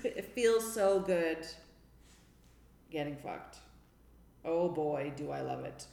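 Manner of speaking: low, slow, understated mock delight; mock enthusiasm. Shown as a demonstration. Demonstrating dirty talk to doubtful co-hosts, mock-enthusiastic. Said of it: "Do you hear the enthusiasm?".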